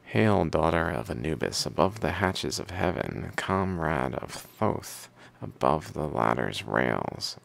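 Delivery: steady recital with firm phrase openings; reading aloud. Acted. Reader reciting hymns to the Pharaoh and their commentary, reading aloud. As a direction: read it like verses from an old book.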